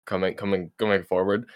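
tripping over words; repeating words while stuck; stuttering. Real, not acted. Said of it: "I'm stuttering".

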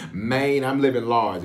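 Southern way of saying man; Southern "Maine". Shown as a demonstration. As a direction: say "Maine" like a Memphis native. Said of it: "If you wanna sound like a true Southerner".

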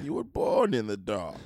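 slow villain impression; Bane. Echoing friend's film quote, slow villain impression. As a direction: copy a movie villain, drawn out. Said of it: "with the accent was supposed".

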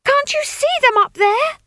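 high, loud desperate shriek. Acted. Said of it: "she shrieked in his ear".

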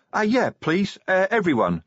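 troll jumping at the offer; prompt troll. A narrator's reading. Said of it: "said Brick promptly".

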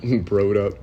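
giggling through the words; laughing. Real, not acted. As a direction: laugh while repeating it. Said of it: "repeated with laugh".

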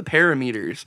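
parameters said as PARA-meters; mispronounced parameters. Retold or imitated. Coworker asking about machines, parameters mispronounced as PARA-meters. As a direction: say parameters as PARA plus MEE-ters. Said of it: "What the hell is a parameter?".

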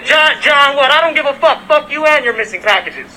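furious neighbor confrontation; angry pressing. Real, not acted. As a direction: push him hard for an answer. Pressing neighbor for his name.

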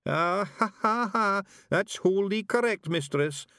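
high, proud, dim-witted pixie; pleased-with-himself high cackle and boast; Daft Willie. A narrator's reading. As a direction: crow proudly in a high slow voice. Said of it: "sticking out his chin with pride".

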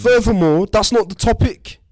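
high, loud, upset put-on Scouse voice; distraught wife. Wife begs husband for help, high distraught voice. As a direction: play the wounded wife, pitched high and loud.

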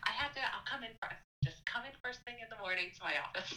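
a hint of breathless student urgency; urgent student. Student's urgent message voiced.

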